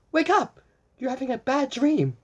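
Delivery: high, loud call to wake her; urgent call. Acted. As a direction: shout her awake from a nightmare. Magenta waking Blue from dream.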